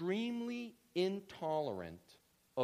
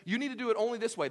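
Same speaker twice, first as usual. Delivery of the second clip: loud, fast, higher bossy command; legalistic voice; 8 semitones higher, 8 dB louder, faster than usual. Retold or imitated. Pastor voicing a legalist, bossy and fast. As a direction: rattle off the one right way. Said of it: "You hear the legalism here".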